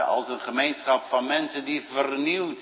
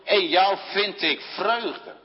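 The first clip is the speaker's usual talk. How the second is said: voice of God; 7 semitones higher, slower than usual. Retold or imitated. God the Father speaks to Son.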